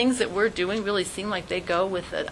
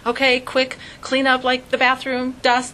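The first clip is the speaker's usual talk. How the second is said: mock flustered rush; 3 semitones higher, 4 dB louder than usual. Panicked host voiced.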